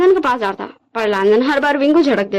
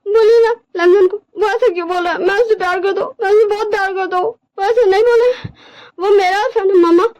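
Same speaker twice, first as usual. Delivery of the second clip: put-on higher-pitched, childlike tearful appeal; tearful, pleading Wing; 7 semitones higher than usual. Wing begs mother to talk to Lanjan, tearfully pleading. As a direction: whimper and plead for mother's help.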